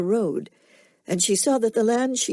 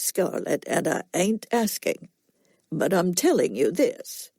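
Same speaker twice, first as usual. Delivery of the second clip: slow cracker drawl; 2 semitones lower than usual. Acted. Will warns Scarlett off Tara in a slow cracker drawl. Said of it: "Will continued in his slow cracker drawl".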